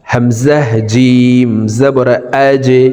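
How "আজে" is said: আজে with the j pushed into a bounce; downward qalqalah. Shown as a demonstration. Teacher demonstrating jim, আজে with a downward echoing j. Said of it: "নিচের দিকে ধাবিত করে ধাক্কা দিয়ে".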